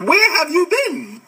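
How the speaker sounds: high, slow, drawn-out question; slow, high-pitched incredulous retort; incredulous exasperation. Real, not acted. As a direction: stretch it out high, in mock disbelief. Same retort, repeated in exasperation.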